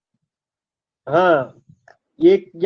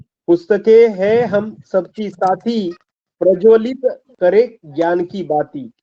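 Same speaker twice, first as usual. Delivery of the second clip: slow slogan recital. Shown as a demonstration. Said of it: "एक घोष वाक्य लिखा है".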